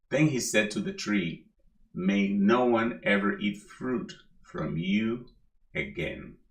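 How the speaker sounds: measured, lightly solemn Bible reading; scripture reading. Acted. Preacher reading Mark to the congregation, lightly solemn. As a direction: read the passage to the congregation, unhurried.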